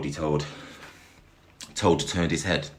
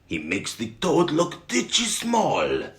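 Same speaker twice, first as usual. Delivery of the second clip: excited shouting. Acted. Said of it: "The French were shouting".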